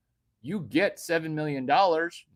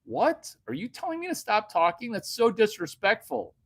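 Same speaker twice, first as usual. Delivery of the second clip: mock outrage; 8 semitones higher than usual. To the woman telling him to stop, mock offense. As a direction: act scandalized, pitch way up. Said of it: "if I'm like".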